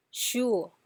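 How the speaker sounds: SURE with a dip; "sure" as a third-tone drill; bouncing third tone. Shown as a demonstration. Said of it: "Let's say it again".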